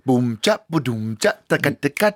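vocal drum beat; improvised beatbox. Pretend. Co-host making a jingle on the spot, beatboxing. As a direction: imitate a drum groove with the mouth. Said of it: "Ok, da lager vi".

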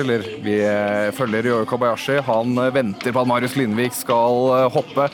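sports play-by-play; live commentary. Real, not acted. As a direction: call the jump live. Live ski jump play-by-play.

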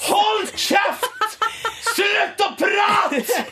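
very high, strained yell at the TV; re-enacted yelling. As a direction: shriek it at the screen, dragging out the end. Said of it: "lyst til å sitte der og rope sånn".

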